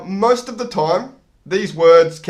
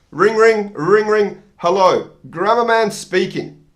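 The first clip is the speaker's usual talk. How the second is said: phone call; 3 semitones higher than usual. Pretend.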